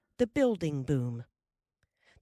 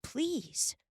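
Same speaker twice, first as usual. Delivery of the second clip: eager plea; 11 semitones higher than usual. A narrator's reading. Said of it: "Laura cried".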